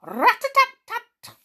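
high, loud rat-a-tat knock sound. Acted. Jump knocking loudly on the gnome's red door. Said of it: "Jump knocked loudly".

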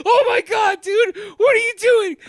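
mock freaking out. Mac yelling at Charlie mid-chaos, panicked. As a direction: play Mac losing it in alarm. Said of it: "Mac is freaking out".

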